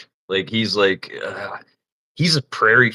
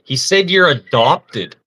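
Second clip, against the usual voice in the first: slow, raised, spelled-out repeat; called out; 4 semitones higher, 5 dB louder, slower than usual. Retold or imitated. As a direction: call it up slowly for him. Repeating the joke up ladder.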